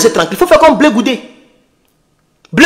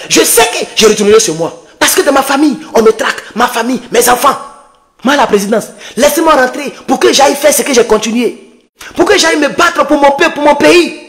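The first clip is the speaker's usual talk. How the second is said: lightly voiced imitation of Blé Goudé begging the judge; a hint of a desperate courtroom plea; mock Blé Goudé pleading. Vlogger mocks Blé Goudé pleading before the ICC judge, lightly imitated plea. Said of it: "Il a crié ici à la C P I".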